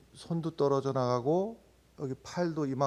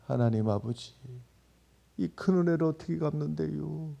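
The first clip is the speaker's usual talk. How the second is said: moving prayer. Retold or imitated. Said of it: "그렇게 은혜스럽게 느껴졌던". (은혜스럽고 잔잔한 충청도 사투리 기도)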